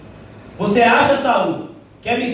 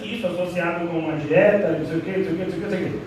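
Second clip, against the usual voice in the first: fine-print voice; 6 semitones lower, 4 dB quieter, faster than usual. Retold or imitated. Preacher imitating a diet ad's rushed disclaimer, low and soft. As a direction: lower and softer, the rushed disclaimer. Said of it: "vem uma voz assim".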